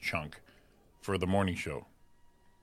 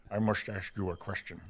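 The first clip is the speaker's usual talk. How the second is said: lightly voiced movie-star impression; put-on film voice; 4 dB quieter than usual. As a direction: do a hint of a film character. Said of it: "I'm good at voices".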